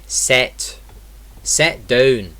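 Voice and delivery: "set down" for sit down, with an eh vowel; Scottish short I. Shown as a demonstration. Teacher showing the vowel, Scottish "set down". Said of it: "it's eh".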